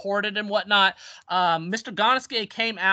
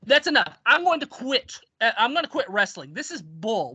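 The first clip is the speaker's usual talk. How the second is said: retold announcement of quitting, raised pitch; fed-up outburst; 3 semitones higher than usual. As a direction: act out putting your foot down. Fed-up wrestler quitting in meeting.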